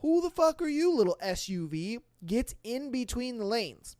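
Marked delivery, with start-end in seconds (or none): 0.0-2.0 trucker's mock outrage. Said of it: "he's just like".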